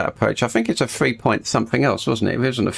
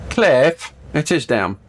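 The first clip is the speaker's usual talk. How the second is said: calling out; 4 semitones higher, slower than usual. Real, not acted. Calling out to Cliff.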